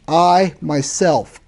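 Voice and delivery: "I, myself" slow and weighted, with space between the words; emphatic. Retold or imitated. Preacher quoting Solomon's Hebrew to the congregation, emphatic "I, myself". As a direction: lean deliberately on "I" and "myself". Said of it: "what Solomon's doing is very emphatic".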